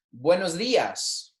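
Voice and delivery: buenos dias said slowly for the class to repeat; drawn out, clear Spanish model; slow model phrase. Shown as a demonstration. Teacher to class, slow buenos dias to repeat. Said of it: "saying these with me".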